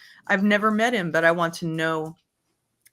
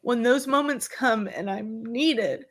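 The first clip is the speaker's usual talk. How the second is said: wavering voice; 4 semitones higher than usual. Real, not acted. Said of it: "I'm getting so emotional".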